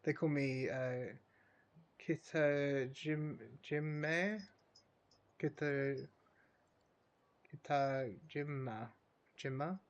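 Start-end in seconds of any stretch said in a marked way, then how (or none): 2.1-8.9 Kitajima sounded out slowly in broken attempts; tentative pronunciation. Real, not acted. Gamer reading out a character's name, Kitajima haltingly sounded out. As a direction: try Kitajima piece by piece, questioning the ending. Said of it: "I think is how you pronounce that".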